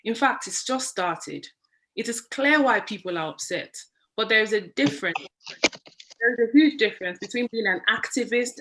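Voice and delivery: measured, prepared public address; formal opening speech. Real, not acted. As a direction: read it out deliberately as a rallying statement.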